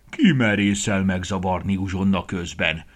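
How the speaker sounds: loud bellowing bear; a mildly loud bear roar. Acted. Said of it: "üvöltötte".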